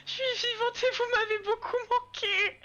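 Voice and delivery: tearful relief. Acted. Sauvée, retrouve son chef au téléphone.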